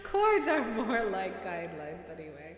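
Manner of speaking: hammed-up stage-Irish delivery, tongue in cheek; bad Irish accent. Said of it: "in a really bad Irish accent".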